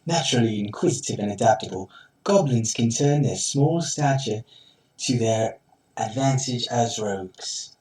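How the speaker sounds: nature documentary narrator voice; Sir David Attenborough. Pretend. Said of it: "going for a Sir David Attenborough".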